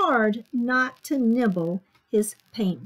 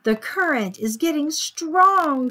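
higher, louder lilting teacher; singsong; 5 semitones higher, 5 dB louder than usual. A narrator's reading. Teacher leading children's sea dance, singsong. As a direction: lilt it out to the class. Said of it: "sang the teacher".

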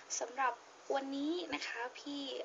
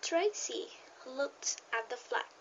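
model reading aloud; much slower than usual. Shown as a demonstration. Teacher models pausing for beginner English learners, slow careful read-aloud. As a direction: read it out slowly, word by word. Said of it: "ถ้ามี full stop เมื่อไหร่".

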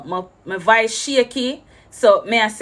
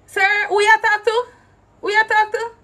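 much higher, indignant retort; indignant outburst; 12 semitones higher than usual. Retold or imitated. Traveller rounding on the guard in the hallway, high and indignant. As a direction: throw the question back, offended.

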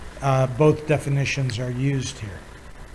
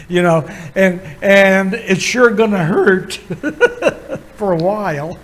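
louder, breaking into a laugh at the end; 3 semitones higher, 4 dB louder than usual. Real, not acted. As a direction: say it with real amusement, then laugh. Jokes that it will hurt.

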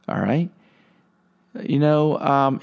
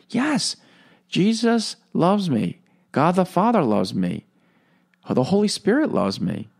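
enthusiastic reply; 5 semitones higher than usual. Retold or imitated. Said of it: "They're all enthusiastic".

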